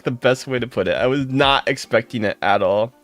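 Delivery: ordinary talk, nothing marked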